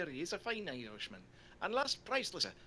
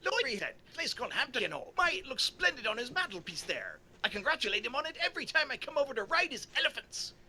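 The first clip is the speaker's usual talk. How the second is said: put-on Irish accent; 5 semitones higher, 4 dB louder than usual. Voicing O'Leary, Irish liar.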